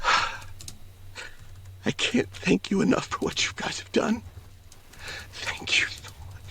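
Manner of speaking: slow, breathy, unvoiced thanks; a grateful father choked with tears; the father thanks the party in a slow, tearful whisper.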